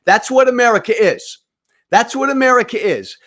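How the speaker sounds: loud, high declaration of belief; shouting. Real, not acted. Commentator to his audience, a loud, impassioned shout. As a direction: proclaim it to the crowd, full voice.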